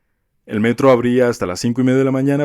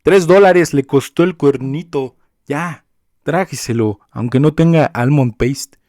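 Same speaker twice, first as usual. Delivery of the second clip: louder, slow, exasperated reply; exasperated retort; 5 semitones higher, 6 dB louder, slower than usual. Retold or imitated. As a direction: tell off the customer, slow and fed up. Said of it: "Y yo". (respuesta exasperada y lenta a la clienta)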